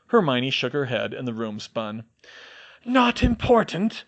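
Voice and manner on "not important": dismissive. A narrator's reading. Hermione brushing it aside, in pain.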